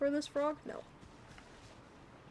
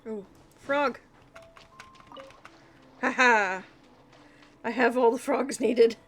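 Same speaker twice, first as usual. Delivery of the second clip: excited; 6 dB louder than usual. Real, not acted. Finally finds the last frog.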